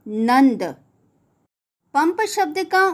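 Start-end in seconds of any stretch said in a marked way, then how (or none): 0.1-0.6 नंद said with a clear न before द; clear pronunciation. Shown as a demonstration. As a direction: say नंद with the न sound. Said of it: "इसका उच्चारण होगा". (नंद को न की ध्वनि के साथ बोलें)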